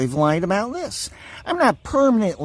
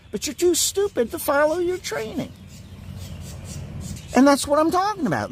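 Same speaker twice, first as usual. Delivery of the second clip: higher, fast and indignant; angry rant; 9 semitones higher than usual. Real, not acted. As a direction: tear into them, pitch climbing. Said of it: "This is what I am angry about".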